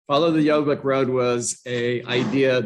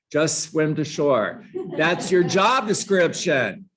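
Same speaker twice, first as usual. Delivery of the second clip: emphatic, higher-pitched insistence; super passionate; 4 semitones higher, slower than usual. Real, not acted. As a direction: drive it home slowly and passionately. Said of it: "I'm super passionate".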